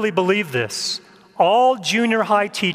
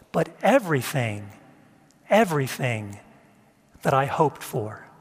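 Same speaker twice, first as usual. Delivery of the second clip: prayer reading. Acted. Reads a prayer aloud.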